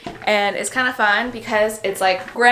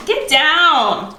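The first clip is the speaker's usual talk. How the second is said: sharp command; 6 semitones higher, 6 dB louder than usual. Real, not acted. Scolding the dog mid-sentence.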